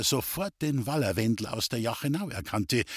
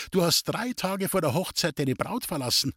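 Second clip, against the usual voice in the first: put-on higher girl's voice, a touch of mystery; knowing young girl; 6 semitones higher than usual. Gypsy girl stuns the soldier with his secret, high and knowing. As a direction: reveal his past as if by magic.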